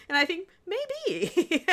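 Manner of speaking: giggling through the words; slowed by real laughter; laughing. Real, not acted. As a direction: laugh it out, amused at the thought. Laughing at own cheeky idea.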